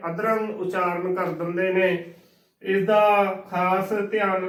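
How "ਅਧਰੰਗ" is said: ਅਧਰੰਗ as adrang, in two syllables; run-together mispronunciation. Retold or imitated. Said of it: "ਇਕੱਠਾ ਉਚਾਰਨ ਕਰ ਦਿੰਦੇ ਨੇ".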